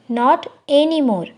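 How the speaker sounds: slow, careful model phrase; slow teacher demo of the English. Shown as a demonstration. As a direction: spell it out slowly for learners. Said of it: "slow model phrase for learners".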